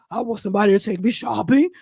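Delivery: low smoker's rasp, like a pack a day; husky voice of a woman who's smoked for years; Vivica impression. Mocking the actress's voice for her viewers, low smoky rasp. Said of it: "talking like she got cigarettes in her throat".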